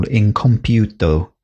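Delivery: put-on Italian pronunciation; a touch of Italian accent. Shown as a demonstration. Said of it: "that's my Italian accent there".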